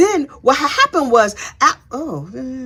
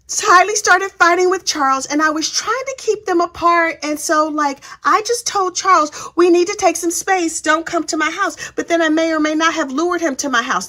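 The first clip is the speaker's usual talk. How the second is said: higher, mock sweet innocent tone; lightly voiced innocent defendant; innocent girl voice; 6 semitones higher than usual. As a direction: imitate her coy testimony. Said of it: "innocent girl voice".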